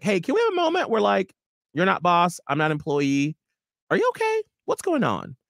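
lilting sympathetic voice; gentle concern. Retold or imitated. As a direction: coax him to open up, kindly. Gentle check-in with boss.

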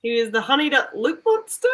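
low-pitched Aussie detective question; put-on Australian accent. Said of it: "time in that Australian accent".

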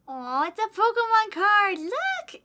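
high, loud, drawn-out cooing; excited high-pitched gushing; delighted squeal. Real, not acted. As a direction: coo with delight over a gift. Delighted by gift card.

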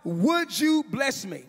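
slow, drawn-out plea to God; preacher imitating a broken man's prayer; crying out to God. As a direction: stretch the plea out, calling up to God. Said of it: "he cries out".

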